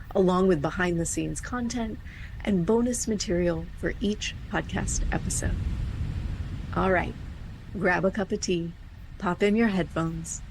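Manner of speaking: measured, evenly paced host read; scripted podcast intro. Real, not acted. Host welcomes listeners to a meditation podcast, scripted intro read.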